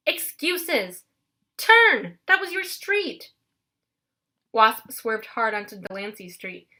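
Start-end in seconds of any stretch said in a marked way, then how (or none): 0.1-3.3 high, loud frantic yell; old hag yelling at her sister driving; shouting at the driver. A narrator's reading. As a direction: yell at the driver who missed the turn. Sisters quarrel while driving.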